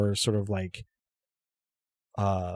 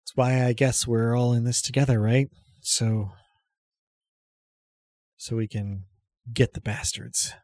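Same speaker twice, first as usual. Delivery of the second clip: slightly raised pitch. Acted. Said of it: "raises her pitch a little bit".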